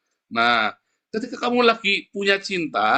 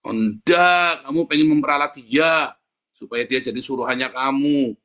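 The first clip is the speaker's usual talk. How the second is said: mock uncle accusation. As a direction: bark it like the uncle catching him out.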